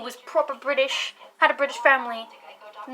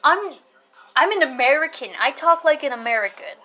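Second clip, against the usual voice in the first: loud, higher insistence; retold indignant protest; 4 semitones higher, 8 dB louder than usual. Child to classmates, insisting indignantly. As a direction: protest it firmly, acting out offended disbelief.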